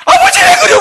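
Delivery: hammed-up falling chick, crying and laughing; shrieking eaglet. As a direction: scream it as you drop. Eaglet shrieks, pushed off by father.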